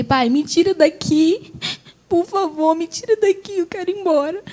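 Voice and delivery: high, crying plea; tearful pleading. Retold or imitated. Daughter begging father to take her home, tearful pleading.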